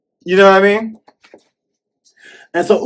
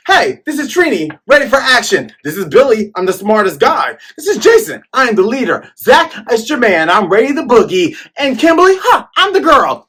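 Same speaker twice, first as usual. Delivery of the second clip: high, hammed-up hero roll call; Power Rangers roll call; 7 semitones higher than usual. Fan mimicking a TV roll call, high and hammy. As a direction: shout each name like a cartoon hero. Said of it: "when the Power Rangers".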